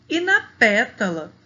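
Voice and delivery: "E na pétala" with a loud "pé"; "pétala" said strongly on its first syllable "pé"; stress on first syllable. Shown as a demonstration. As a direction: punch the "pé" in "pétala". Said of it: "que a gente pronuncia ela mais forte".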